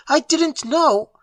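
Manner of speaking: high, slow, broken denial; choked whisper of guilt. Acted. Elliot horrified at his own wish, slow choked. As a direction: let it catch in the throat. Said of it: "Elliot choked".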